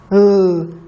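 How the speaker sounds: "L-A-M-P." letter by letter, evenly spaced; spelling out. Shown as a demonstration. Teacher spells the dictated word for the class. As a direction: spell "L-A-M-P." one letter at a time. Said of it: "Now spell lamp".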